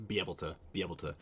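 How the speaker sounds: quick "be able to" as one run-on phrase; Utah Mormon pronunciation. Shown as a demonstration. Streamer showing a prayer phrase, "be able to" quick and run together. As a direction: hurry "be able to" through without a break. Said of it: "They say that in prayers a lot".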